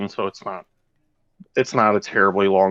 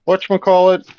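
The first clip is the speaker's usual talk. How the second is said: put-on excited kid; 3 semitones higher than usual. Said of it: "so kids can be like".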